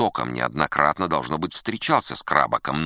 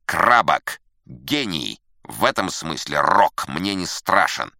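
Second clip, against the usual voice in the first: loud, higher, grandiose protest; indignant boasting; 5 semitones higher, 6 dB louder than usual. Acted. Musician rejecting a call for modesty, indignantly self-important. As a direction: proclaim your genius, affronted.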